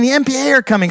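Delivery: retold panic. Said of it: "this woman comes screaming".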